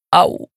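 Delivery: pained grunt from a fall; a short pained "au" on landing; effort grunt. Acted. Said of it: "stęknął". (stęknięcie z bólu)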